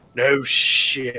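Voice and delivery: hushed, soft whispered mutter under the breath. Reacting in character to a stolen library: muttered under breath. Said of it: "under my breath".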